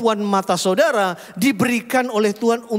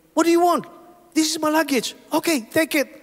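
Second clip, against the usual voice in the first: mock dialogue; 10 semitones higher than usual. Stranger and pastor trade quick lines.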